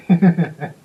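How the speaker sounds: high loud laugh; burst of laughter. Real, not acted. Laughing at the memory.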